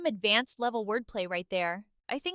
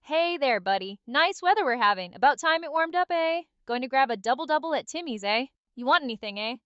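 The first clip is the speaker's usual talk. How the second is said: light mock Canadian, tagging on "eh"; Canadian stereotype. Shown as a demonstration. AI performing requested impression for host, mild Canadian stereotype. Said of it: "impression of a Canadian".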